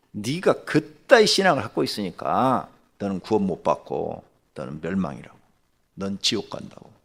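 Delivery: retold scolding, firm at first then dropping; mild acted anger, easing off by the end; angry rebuke. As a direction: reenact laying down a harsh verdict. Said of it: "얼마나 내가 막 화가 나는지".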